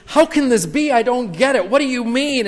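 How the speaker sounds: high, loud, baffled questioning; confused Nicodemus. Retold or imitated. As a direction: play Nicodemus at a total loss. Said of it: "and he says".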